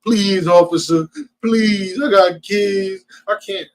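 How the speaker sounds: slow, pleading mock beg; slow mocking plea to the officer; mock begging. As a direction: ham up a begging driver.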